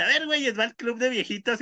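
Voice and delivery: put-on high, commanding old-lady call; rally the old folks like a boss; bossy grandma. Grandma to the old folks' club, high bossy call.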